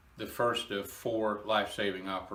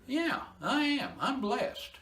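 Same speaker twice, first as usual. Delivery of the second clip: slow and much higher, choked up; emotional; slower than usual. Real, not acted. Telling listeners he is blessed, choked up and emotional. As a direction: hold back real tears on the words. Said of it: "I'm a little emotional".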